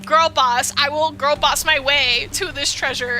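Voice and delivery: put-on loud sassy girl boss; mock girl boss. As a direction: hype yourself up, sassy. Mocking the heroine's bravado.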